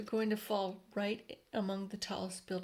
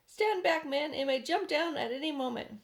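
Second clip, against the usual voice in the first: warning order; 6 semitones higher, 4 dB louder than usual. A narrator's reading. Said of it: "said the chief of police".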